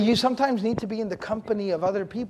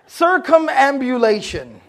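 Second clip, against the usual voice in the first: mock stuffy term; 2 semitones higher, 4 dB louder, slower than usual. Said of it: "You've been reading a lot of eighty-year-old books".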